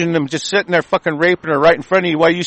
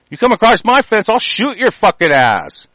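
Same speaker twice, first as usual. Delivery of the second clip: tough settler threat; 4 semitones higher than usual. Retold or imitated. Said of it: "That was their attitude".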